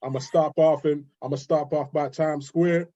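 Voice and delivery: put-on New York accent; American accent. London guest showing the host his best American accent, put-on New York accent. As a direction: play a New Yorker listing the boroughs, American accent. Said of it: "your best American accent".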